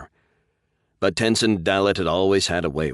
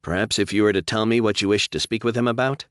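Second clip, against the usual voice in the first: receptionist; 5 semitones higher, 3 dB louder than usual. Acted. Receptionist probing.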